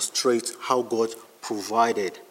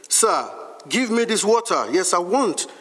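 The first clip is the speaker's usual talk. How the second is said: higher-pitched eager plea; acted eagerness, voice raised in pitch; eager request; 5 semitones higher than usual. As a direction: ask eagerly, pitch lifted. Woman eagerly asks Jesus for water.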